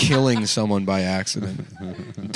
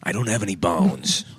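Tim Dillon impression. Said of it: "That's terrible".

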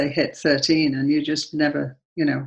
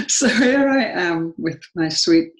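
choked up; 3 semitones higher, 4 dB louder than usual. Real, not acted. Emotional memory of the neighbour.

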